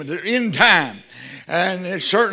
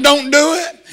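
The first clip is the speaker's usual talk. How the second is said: mildly raised, higher-pitched plea; mother crying out; 5 semitones higher than usual. Retold or imitated. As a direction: retell a mother's cry with restraint. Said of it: "the mother cried out".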